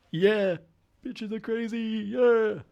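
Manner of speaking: cocky high bro character; misogynist bro character. Acted. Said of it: "playing a misogynistic character".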